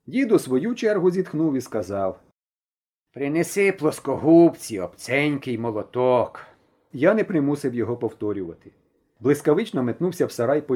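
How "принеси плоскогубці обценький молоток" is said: gruff grandfather. Acted. Grandfather orders tools.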